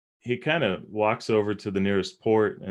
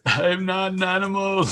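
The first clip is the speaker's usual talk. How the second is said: much higher, loud wounded protest; indignant movie-monster cry; 12 semitones higher, 5 dB louder than usual. Pretend. Player shouts his sack-masked character's protest to the table, high and loud. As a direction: yell it like the misunderstood creature, offended.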